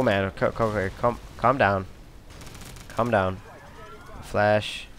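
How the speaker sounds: usual speaking voice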